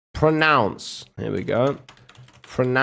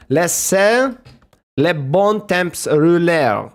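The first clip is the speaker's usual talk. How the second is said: put-on French accent; 4 semitones higher, slower than usual. Streamer showing off to chat, mock French accent. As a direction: show off his French. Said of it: "I even did the French shit".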